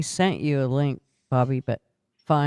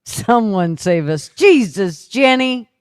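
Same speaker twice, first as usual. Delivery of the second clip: stalker voice; 6 semitones higher, 6 dB louder, slower than usual. Pretend. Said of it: "Stalker voice".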